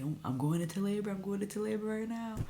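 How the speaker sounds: rising urgency, imitating a hurried alert; retold frantic announcement. Retold frantic texts announcing labor.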